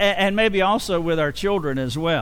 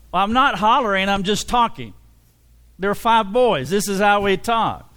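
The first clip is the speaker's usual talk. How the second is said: louder, raised voice insisting it's just talking; hollering but calling it talking; mock hollering; 3 semitones higher, 3 dB louder than usual. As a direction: holler it like a big loud family. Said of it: "starts with hollering".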